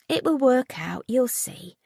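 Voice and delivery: gentle, softening reassurance to a crying friend; comforting. A narrator's reading. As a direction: soothe her friend gently. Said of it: "Molly comforted".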